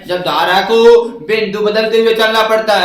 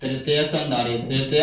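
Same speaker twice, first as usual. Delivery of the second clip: dictation; 6 semitones lower, 7 dB quieter than usual. Real, not acted. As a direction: dictate it in quiet, spaced-out chunks. Teacher dictating notes while writing. (धीमी, नीची आवाज़ में लिखवाते हुए)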